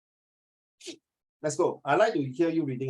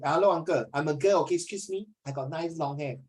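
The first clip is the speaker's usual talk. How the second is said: imitating a girl student; 2 semitones higher than usual. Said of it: "So Luo Lei say".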